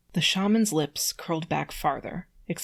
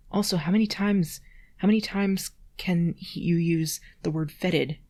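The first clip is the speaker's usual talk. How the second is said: exasperated; 4 dB louder than usual. Real, not acted. Exasperated at repeated word.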